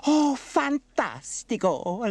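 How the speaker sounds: high, loud, drawn-out Italian exclamation; Bella, delighted. Acted. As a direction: burst out in gleeful delight. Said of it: "laughed Bella".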